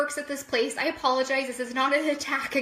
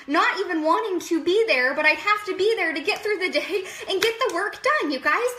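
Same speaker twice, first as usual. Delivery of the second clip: higher, impassioned venting; real worked-up rant; 4 semitones higher than usual. Real, not acted. Venting to viewers about getting through workdays, worked-up rant. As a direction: let it pour out, going off. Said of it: "I'm just kinda going off".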